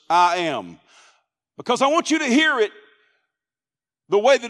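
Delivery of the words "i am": "I am" set apart with weight on both words; emphatic, separate "I am"; stress on I AM. Shown as a demonstration. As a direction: give "I am" its own deliberate beat. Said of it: "I put the emphasis on those first two words".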